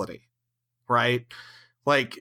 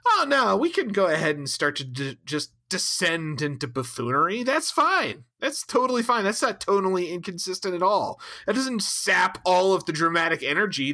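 sarcastic; 3 semitones higher than usual. Acted. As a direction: sneer it out as fake approval. Sarcastic mockery of the writers.

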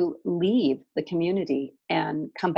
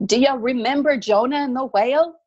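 a woman's higher, hammed-up Jewish accent; bad Jewish accent; 7 semitones higher, 3 dB louder than usual. A dream voice asks about Jonah, in a bad Jewish accent. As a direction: lift the pitch and lay on a mock Jewish accent. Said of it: "This really bad Jewish accent".

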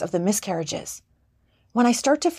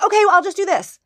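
much higher, louder flustered give-in; nervous caving in; 10 semitones higher, 5 dB louder, faster than usual. Retold or imitated. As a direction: blurt a yes in a panic to keep the client. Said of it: "Nervous Nelly got so nervous".

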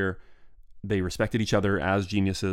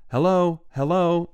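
"Hello, hello" yelled much higher and louder down the line; calling out; 9 semitones higher, 5 dB louder, slower than usual. Retold or imitated. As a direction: shout "Hello, hello" to reach the far station. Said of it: "I yell".

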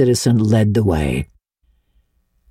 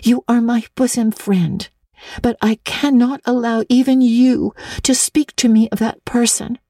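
with dignity; 9 semitones higher than usual. A narrator's reading. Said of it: "said Anne with dignity".

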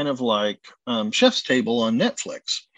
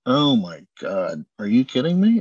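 shocked disbelief; 4 semitones lower than usual. Retold or imitated. Learning the critic's visit.

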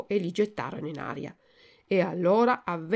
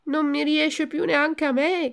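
high, loud acted wail; tearful cry; 8 semitones higher, 5 dB louder than usual. A narrator's reading. Pinocchio finds he cannot stand either, wailing cry. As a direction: cry out in dismay, hammed-up tears. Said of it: "gridò Pinocchio, piangendo e traballando".

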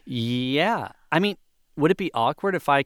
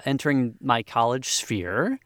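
ordinary talk, nothing marked

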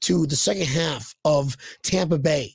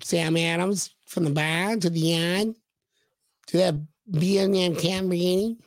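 Boston accent. Shown as a demonstration. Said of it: "That, that's my Boston accent".

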